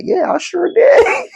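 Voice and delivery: high, slow, breaking into laughter; can't hold the laugh in; words squeezed out through laughter. Real, not acted. Cracking up at fake rich compliment.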